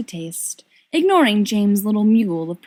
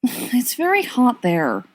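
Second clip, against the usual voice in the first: mournful; 4 semitones higher than usual. Acted. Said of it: "Sirius says mournfully".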